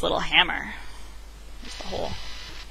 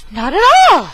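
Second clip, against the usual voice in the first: emphatic denial; 9 semitones higher, 7 dB louder than usual. A narrator's reading. Bigfoot denying.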